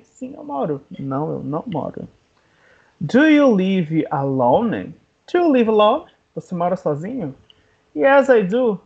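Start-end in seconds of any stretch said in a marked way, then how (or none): 3.0-4.9 slow, drawn-out question; slow teaching model. Shown as a demonstration. English teacher introducing a question to learners, slowly. 5.3-6.1 quick question, pitched higher; quicker natural repeat. Shown as a demonstration. English teacher repeating the question to learners, quicker.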